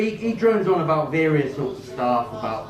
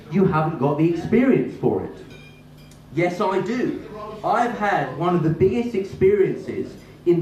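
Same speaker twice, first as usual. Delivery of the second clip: raised-pitch formal read of a Lords speech; reading a speech aloud; 3 semitones higher than usual. Acted. Reading a peer's speech to the audience in a formal voice. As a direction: read it like the parliamentary record, formally.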